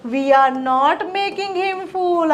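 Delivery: very slow, clear dictation of each English word; teacher modelling English slowly; slow model sentences. Shown as a demonstration. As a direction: spell the sentence out slowly for learners. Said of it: "ચલો વાક્યો જોઈએ મિત્રો".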